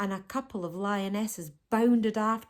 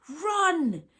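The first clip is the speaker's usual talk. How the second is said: higher, louder urgent cry; urgent call; 9 semitones higher, 6 dB louder than usual. A narrator's reading. Martine urging the giraffe to run, urgent higher call. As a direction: push him to flee, as loud as she dares. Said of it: "as loudly as she dared".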